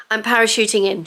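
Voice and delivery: a loud, excited whisper. Real, not acted. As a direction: burst in with a hushed announcement. Jumping in to thank viewers.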